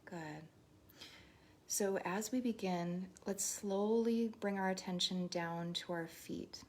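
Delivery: unhurried meditation guide with long pauses; guided meditation. Real, not acted. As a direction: lead them gently through each breath, leaving space. Leads breathing and body scan.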